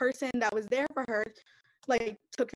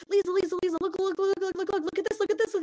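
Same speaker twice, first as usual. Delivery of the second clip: put-on high, loud, insistent kids' calls; eager kids calling; 10 semitones higher, 6 dB louder, faster than usual. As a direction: call out like an eager child tugging a sleeve. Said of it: "and they're like".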